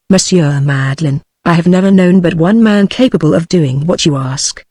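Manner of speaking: Monsieur Madeline, I have never known but one man, every word leaned on evenly; each word emphasized. A narrator's reading. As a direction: weigh each word like an accusation. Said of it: "emphasizing every word that he uttered".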